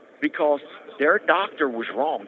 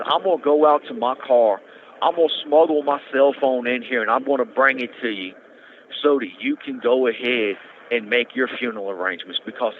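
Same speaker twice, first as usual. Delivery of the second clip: a louder, earnest retelling of the doctor's urgent plea; retold emotional plea; 4 dB louder than usual. ER doctor pleading with a patient to get a biopsy, louder and earnest. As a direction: push it like a worried doctor begging his patient. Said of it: "this man was getting emotional".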